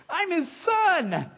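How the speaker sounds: high, slow crying voice; overcome, laughing through tears; voice breaking. Real, not acted. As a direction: choke up with real tears on it. Pastor breaks down declaring sonship.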